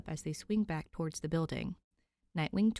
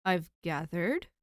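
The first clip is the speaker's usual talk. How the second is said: dry reply; 3 dB louder, slower than usual. Acted. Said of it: "replies dryly".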